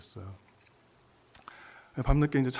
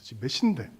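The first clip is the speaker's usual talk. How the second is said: mildly hammed-up annoyed guard, louder; mock-annoyed telling-off; irritated guard; 5 dB louder than usual. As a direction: imitate a grumpy security guard's scolding. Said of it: "짜증을 갑자기 내면서".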